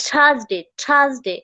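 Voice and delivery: "থার্সডে" short, with a hard puffed T; demonstrated pronunciation. Shown as a demonstration. Teacher showing a TH word, punched-out demonstration. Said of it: "টি এইচ আছে আমার".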